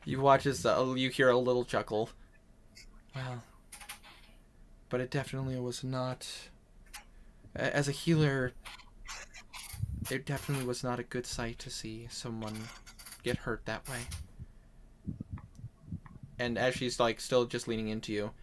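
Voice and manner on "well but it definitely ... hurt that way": soft, earnest healer confiding worry; concerned healer. Acted. Healer telling a friend about seeing them hurt, softly concerned. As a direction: speak softly, as someone who hated watching it. Player speaks as her healer character.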